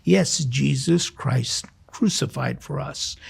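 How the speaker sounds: ordinary delivery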